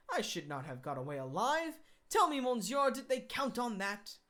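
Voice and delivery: a hint of a cocky gentleman thief teasing the keeper; lightly voiced Lupin, mocking. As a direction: Lupin needling the prison keeper, mildly mocking.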